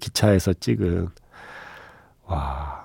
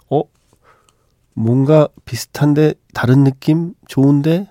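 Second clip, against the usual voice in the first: higher, curious and pleased; intrigued audience; 6 semitones higher than usual. Retold or imitated. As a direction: voice a pleasantly surprised viewer. Audience voiced in retelling.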